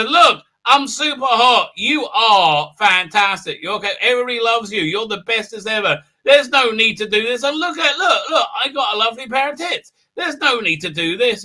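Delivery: hammed-up pleading hostess; imitated persuasive woman. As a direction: talk him down in a put-on high voice. Voices woman talking him down.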